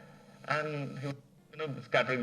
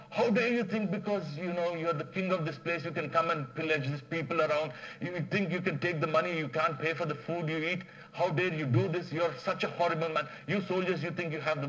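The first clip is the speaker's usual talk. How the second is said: screaming at the king; 6 semitones higher than usual. Retold or imitated. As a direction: tear into the king at full voice. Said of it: "he starts screaming".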